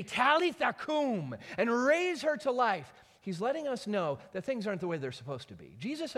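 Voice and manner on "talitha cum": quoted gently, a touch higher, slowed; just recall the words, not a full call; softer quoting. Retold or imitated. Preacher quoting Jesus to the congregation, understated. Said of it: "raise a dead girl up and say".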